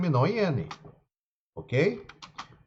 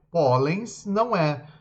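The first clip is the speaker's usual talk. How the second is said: slow emphatic; 2 semitones higher, slower than usual. Shown as a demonstration. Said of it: "porque ele termina em N S".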